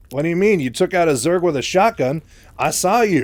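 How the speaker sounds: high, loud disbelieving protest; incredulous. Retold or imitated. Raynor challenges Mike's refusal to shoot, loudly incredulous. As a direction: challenge him in acted disbelief.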